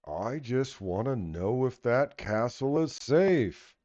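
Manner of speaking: slow giant's voice; gentle giant voice. Acted. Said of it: "Big deeping voice".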